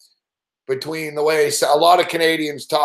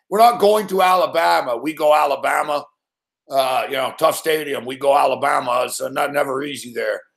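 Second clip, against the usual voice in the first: Ed Orgeron impression; 2 semitones lower than usual. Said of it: "he speaks like Ed Orgeron".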